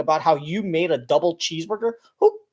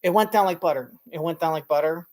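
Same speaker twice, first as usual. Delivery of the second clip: stammering imitation; slower than usual. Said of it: "trying to make shit up".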